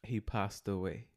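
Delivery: slow deadpan delivery; slow and deliberate; deadpan punchline. Shown as a demonstration. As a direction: let the punchline land slowly. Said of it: "this joke is about delivery".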